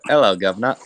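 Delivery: cockney hello governor, played for laughs; hammed-up British greeting; mock British accent. Friend's try at a British accent, mock cockney. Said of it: "You can do, like, a".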